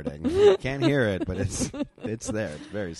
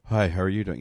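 guilty fake cheer; 7 dB louder than usual. Guilty over-friendly greeting.

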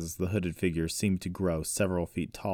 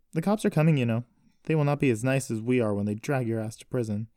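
higher, raised-voice warning; angry threat; 6 semitones higher, 4 dB louder than usual. A narrator's reading. Sister warning suspected kidnapper of police, angry threat. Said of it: "It only made her angrier".

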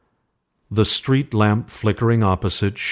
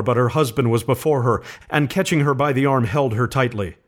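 ordinary delivery

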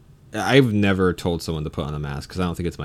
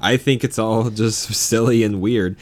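louder, slower, laughing agreement; agreeing with a laugh; 3 semitones higher, 5 dB louder than usual. Retold or imitated. Telling a maskless customer she agrees, louder with a laugh. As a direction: chuckle through it while siding with him. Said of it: "Like, I tell him that".

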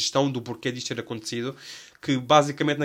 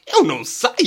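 northern Portugal accent; 7 semitones higher, 7 dB louder than usual. Shown as a demonstration. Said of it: "vê-me assim um sotaque do norte".

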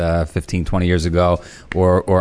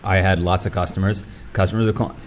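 throat catching on a bite of food bar; talking while half choking on food; 3 dB quieter than usual. Real, not acted. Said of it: "I'm choking on a al-, owl bar".

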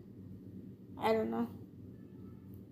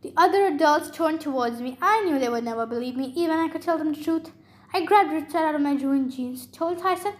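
animated read-aloud storytelling; story narration; 2 semitones higher than usual. A narrator's reading. Reader tells of the hero charging the giant, story narration. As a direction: narrate the action with lively emphasis.

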